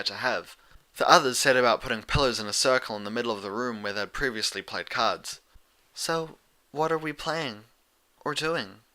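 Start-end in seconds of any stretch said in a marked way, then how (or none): 5.9-8.8 Fluttershy. Acted. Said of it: "Fluttershy asked".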